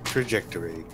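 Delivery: flat robotic computer voice. Pretend. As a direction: speak it like a robot. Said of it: "robotic voice".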